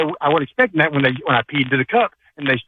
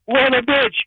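yelling into the phone; 5 semitones higher than usual. Real, not acted. Caller yells his dog joke into the phone. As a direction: belt it at the phone. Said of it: "you're screaming into the phone".

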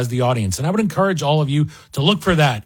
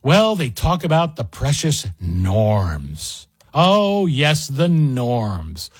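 sarcastic mock reverence; much slower than usual. Mocking opponents' precious norms.

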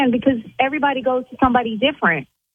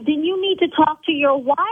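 a bit higher, still heated; still yelling; 5 semitones higher than usual. Acted. Owner still yelling at the caller about his wife. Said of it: "See, now I'm yelling".

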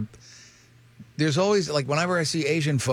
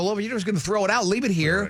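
higher, fast pleading; retold plea; 5 semitones higher than usual. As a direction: wheedle the waitress to leave it. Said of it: "I go".

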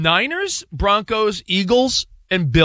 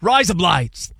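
Australian accent; much slower than usual. Shown as a demonstration. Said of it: "in an Australian accent".

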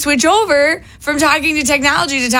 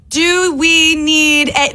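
slow, over-careful, higher; slow dictation voice; 5 semitones higher, much slower than usual. Retold or imitated. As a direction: exaggerate talking to the phone. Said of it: "some people, when they talk to text".

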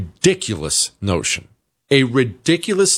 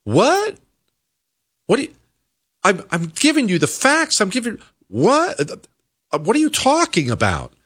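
high, baffled disbelief; mock exasperated disbelief at a Democrat; incredulous what; 8 semitones higher than usual. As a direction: react like the facts were ignored. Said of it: "looking at them like".

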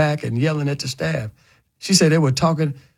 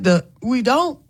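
higher mock protest; quoting Tiffany; 10 semitones higher, slower than usual. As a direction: jump up high as if cutting in. Quoting Tiffany mid-argument.

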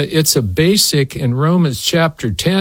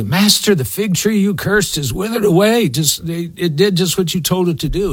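higher, lightly acted astonished report; lightly voiced disciples; 5 semitones higher than usual. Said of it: "as the disciples were going by".

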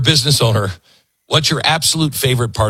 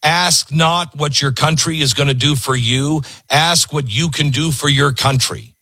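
higher, proud reciting of the line; quoted with fervor; 4 semitones higher than usual. Retold or imitated. Reciting Kennedy's line for a cheering crowd, higher and proud. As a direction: deliver it like a rallying quote. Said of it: "they will cheer for the line".

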